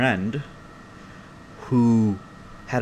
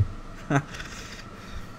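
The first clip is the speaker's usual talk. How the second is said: soft, voiceless laugh; hushed snickering laugh; breathy chuckle; 3 semitones higher, 9 dB quieter than usual. Real, not acted. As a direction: chuckle quietly at your own joke. Laughs after his own joke.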